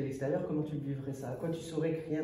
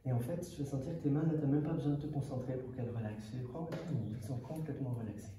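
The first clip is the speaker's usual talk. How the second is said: measured, calming hypnotist delivery; lulling patter with long pauses; hypnosis induction; 5 dB quieter than usual. Acted. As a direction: guide them down into relaxation, phrase by phrase.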